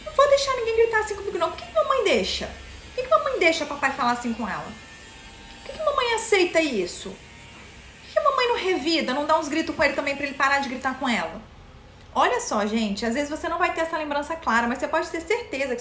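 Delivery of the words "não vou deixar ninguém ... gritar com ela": put-on indignant child. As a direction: plead like an upset little kid imitating childhood. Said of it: "criança, ouvindo o papai gritando, e eu falo assim".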